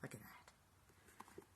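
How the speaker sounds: slow, awed whisper. Acted. Host revealing the box's message, slow awed whisper. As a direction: let it land softly in a whisper.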